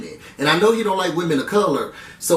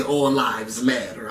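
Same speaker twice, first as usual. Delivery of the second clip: mock quote; 8 semitones lower, 4 dB quieter, slower than usual. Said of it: "I don't think she'll be saying".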